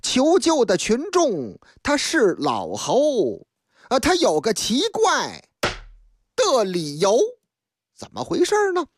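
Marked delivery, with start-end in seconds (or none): 0.0-3.5 slow, measured verse delivery of the opening couplets; unhurried chanted story intro; storyteller's rhymed opening. Acted. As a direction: recite the opening lines like a storyteller setting the scene.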